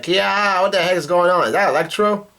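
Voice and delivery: lightly acted startled alarm; retold fright. Scared crew member as the storm hits, mild mock fright. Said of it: "is scared".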